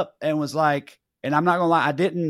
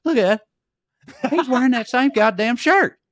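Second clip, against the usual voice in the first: retold exclamation; 9 semitones higher, 4 dB louder than usual. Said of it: "and he said".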